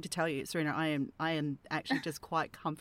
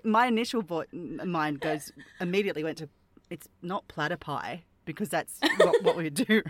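laughing; 6 dB louder than usual. Real, not acted. Laughing over platypus plural.

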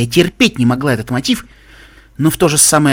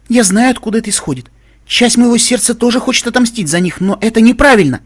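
high-pitched, earnest appeal, louder at the end; pleading objection; 9 semitones higher, 4 dB louder than usual. A narrator's reading. Velvet objecting to Little Pip's revenge, pleading. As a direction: plead against it in a raised pitch.

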